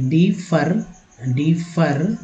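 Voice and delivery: डिफर with the ending फर said clearly; syllable demo. Shown as a demonstration. Teacher to class, isolating फर in डिफर. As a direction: break out फर in डिफर. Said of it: "एफ लग गया तो फर हो गया".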